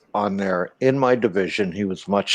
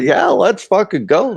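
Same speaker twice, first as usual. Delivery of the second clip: eager yes; 9 semitones higher, 5 dB louder than usual. Retold or imitated. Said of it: "I was like".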